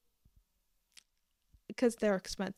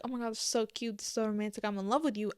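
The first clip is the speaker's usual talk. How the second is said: mock gushing; much faster than usual. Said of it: "I would not be like".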